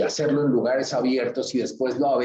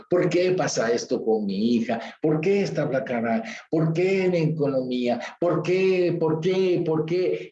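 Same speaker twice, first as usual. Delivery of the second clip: voicing Gedeón's grievance to God; complaint. Preacher voicing Gedeón's complaint to the Lord, rising and pleading. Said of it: "aquí empieza la queja".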